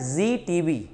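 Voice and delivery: जीटीवी starting with a buzzing 'z'; nukta sound. Shown as a demonstration. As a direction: say जीटीवी as 'zee'. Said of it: "जीटीवी बोलते हैं वो क्या होता है". (जीटीवी को 'ज़' से बोलें)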